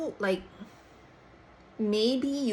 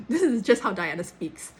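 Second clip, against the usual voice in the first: laughing; 6 dB louder than usual. Real, not acted. Laughs while retelling friend's defence.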